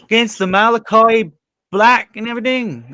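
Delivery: Canadian impression. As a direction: play a chirpy Canadian wrestling fan. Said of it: "the Adam Copeland Canadian impression".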